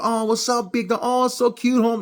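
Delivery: high, mocking street-guy voice; teasing cholos. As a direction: tease the big guy carrying a teddy. Cholos teasing him at mall.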